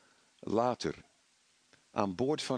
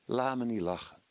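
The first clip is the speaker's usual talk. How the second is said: devil's scorn. Acted. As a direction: scoff at the listener as the tempter. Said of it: "Dat die duivel zegt". (een vleugje spottende duivel)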